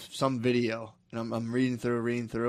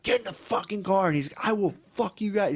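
raised-pitch imitation of a ranting kid; half-hearted replay of a tantrum, pitched up; mock going nuts; 7 semitones higher than usual. Kid orders mom into car, mock tantrum. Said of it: "this dude was going nuts".

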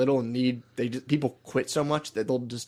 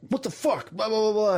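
high-pitched imitation of a fed-up manager; exasperated boss, imitated in a raised pitch; mock outrage; 8 semitones higher than usual. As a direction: squeal the indignation, then blur into mock ranting. Retelling the manager's angry outburst.

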